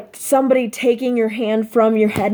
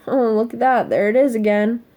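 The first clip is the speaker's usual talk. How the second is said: sarcastic mockery. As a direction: sneer at herself. Sarcastic inner critic.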